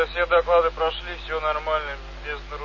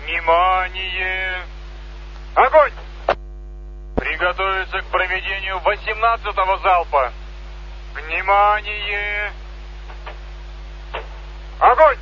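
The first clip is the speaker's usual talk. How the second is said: military commands; slower than usual. Real, not acted. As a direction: call out firing commands. Salute firing commands over loudspeaker.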